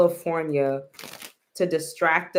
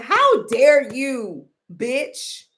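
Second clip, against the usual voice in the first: higher, louder, slow indignant outburst; mad; 5 semitones higher, 4 dB louder, much slower than usual. Acted. Imitating the president mad at California, indignant. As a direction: play an outraged president, drawing out the words. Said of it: "he's mad".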